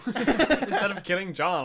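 can barely get it out for laughing; real laughter breaking up the line. Real, not acted. Laughing at the dragon scene.

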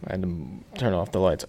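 winded from running; breathless after rushing; out of breath. Real, not acted. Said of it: "I'm out of breath".

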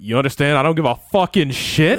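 defiant retort through a laugh; laughing defiance. Retold or imitated. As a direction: laugh while snapping back. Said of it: "And I was like".

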